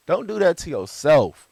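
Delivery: laughing through the words. Real, not acted. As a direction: say it while laughing. Laughing follow-up.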